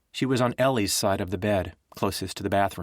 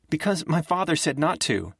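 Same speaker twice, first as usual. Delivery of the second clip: tearful; 8 semitones higher than usual. A narrator's reading. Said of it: "She was crying now".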